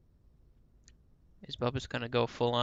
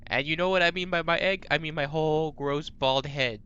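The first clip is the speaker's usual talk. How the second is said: playful menace; 4 semitones higher, 4 dB louder than usual. Pretend. Crude mock threat, voicing a character.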